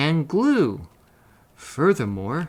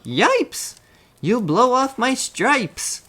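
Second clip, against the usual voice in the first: high, shrill-free yelp of alarm, much higher; zebras yelling; 12 semitones higher, 4 dB louder, slower than usual. A narrator's reading. Zebras yell in alarm at the elephant. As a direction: cry out high in panic. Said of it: "The zebras yelled".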